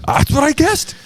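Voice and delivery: high, mock-smug gloat. Real, not acted. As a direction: gloat playfully about the guess. Gloating over correct guess.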